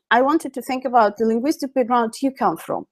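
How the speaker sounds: quick breathy whisper. Shown as a demonstration. Repeats the request, whispered.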